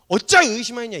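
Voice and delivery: loud, high mock scolding; imitated rebuke. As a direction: scold sharply as a storyteller would. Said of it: "그래가지고 막 탈탈 털린 거예요". (호통치듯 크고 높게 흉내)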